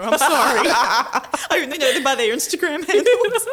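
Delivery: giggling through the words; laughing. Retold or imitated. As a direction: laugh while you say it. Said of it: "she's like".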